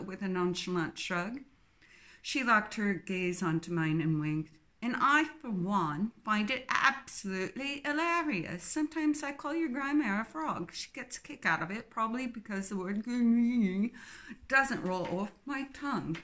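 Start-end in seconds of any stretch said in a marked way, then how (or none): 4.8-16.2 Philippa, cheery English twin. Acted.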